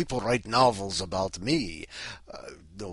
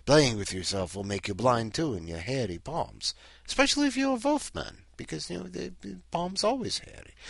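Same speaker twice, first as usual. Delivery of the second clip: high, fussy squeaky voice; high-pitched nervous lecturer; vampire scientist; 6 semitones higher than usual. Acted. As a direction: squeak out the warning like a nervous professor. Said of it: "so he said".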